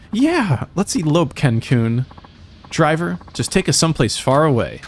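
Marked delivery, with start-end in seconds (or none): 0.1-2.0 high, fast, giddy lover's plea; eager young lover. Acted. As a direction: rush it out like a lovesick runaway. Couple agreeing to elope.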